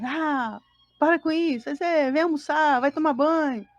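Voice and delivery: mock nagging, one command after another; bossy orders. Mother only giving her child orders, bossy imitation. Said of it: "Só nas ordens".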